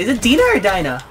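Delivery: "Dina" punched high, "Dinah" falling away as the alternative; contrasting two pronunciations. Real, not acted. Asking viewers which pronunciation, contrasting "Dina" and "Dinah". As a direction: stress both names, DEE-na for "Dina", DIE-na for "Dinah". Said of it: "I always thought it was pronounced Dina".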